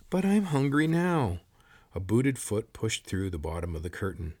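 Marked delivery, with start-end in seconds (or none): 0.1-1.4 high, louder shrill complaint. A narrator's reading. Hungry corporal interrupting the sergeant, shrill. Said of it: "spoke in a shrill voice".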